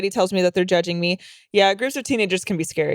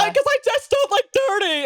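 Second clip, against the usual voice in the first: mock relative voice. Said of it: "and I'm like".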